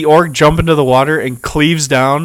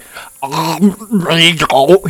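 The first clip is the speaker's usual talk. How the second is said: gurgled amigo attempt; 4 semitones higher than usual. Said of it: "tried to say a new word".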